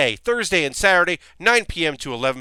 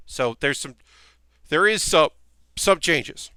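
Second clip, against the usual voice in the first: talking through a burp; words broken by a burp. Real, not acted. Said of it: "Sorry, burping there".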